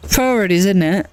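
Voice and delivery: a bad try at an English accent on Priorities; English accent attempt. Streamer to chat, admitting she can't do an English accent. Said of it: "I can't do an English accent".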